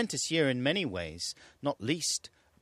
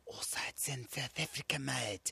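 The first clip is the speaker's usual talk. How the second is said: higher, hammed-up South African accent, ending on "mate"; mock South African accent; 9 semitones higher than usual. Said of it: "talk like that, like a real South African".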